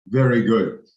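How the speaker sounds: hammed-up Birmingham accent; mock Birmingham accent. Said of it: "Sorry to any from Birmingham".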